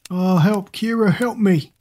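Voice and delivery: high-pitched plea for rescue; acted distress call, drawn out at the end; frightened cry for help. A narrator's reading. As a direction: call out in alarm, pitch climbing. Doll cries out for rescue.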